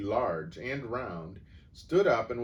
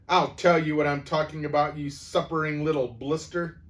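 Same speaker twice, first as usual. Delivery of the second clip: higher, much louder shout; 7 semitones higher, 9 dB louder than usual. A narrator's reading. Headmistress answering the boy, shouting. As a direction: yell it down at him. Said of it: "the Trunchbull shouted".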